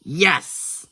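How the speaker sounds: brief pleased exclamation; a little burst of renewed excitement; perking up. A narrator's reading. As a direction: perk up suddenly on one word. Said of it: "perking back up".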